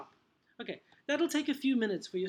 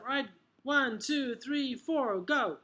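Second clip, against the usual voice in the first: classroom countdown; 5 semitones higher, slower than usual. Acted. Acted countdown for drill.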